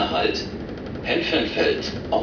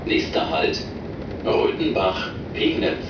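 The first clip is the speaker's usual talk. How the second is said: over the intercom. Real, not acted. Recorded train stop announcements.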